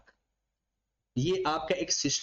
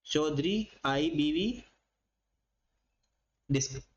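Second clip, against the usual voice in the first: slow repeat; 3 semitones lower, slower than usual. Shown as a demonstration. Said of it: "ठीक है ना".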